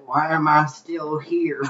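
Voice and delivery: grumpy great grandma. Retold or imitated. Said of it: "that's a legitimate quote from her".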